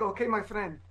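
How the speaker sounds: put-on light Arab-accented gas station attendant. Gas station attendant greeting a card holder, light Arab accent. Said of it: "is that a gas station attendant accent?".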